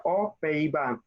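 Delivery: "O, Pays-Bas" without any z link; silent X. Shown as a demonstration. Teacher answers confused student, silent X demonstration. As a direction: say a bare "O" before "Pays-Bas". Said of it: "Esta X no suena".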